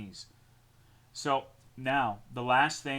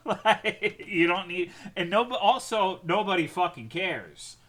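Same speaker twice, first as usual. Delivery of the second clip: loud, higher laughing dismissal; laughing rant; 7 semitones higher, 7 dB louder than usual. Real, not acted. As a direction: laugh it off loudly.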